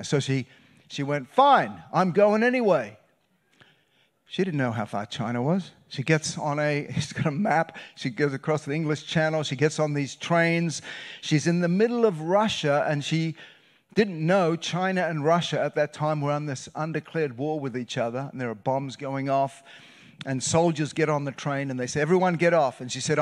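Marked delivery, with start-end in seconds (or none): 1.3-3.0 defiant. Retold or imitated. Defiant quote in retold story. 22.0-22.8 soldier's order. Retold or imitated.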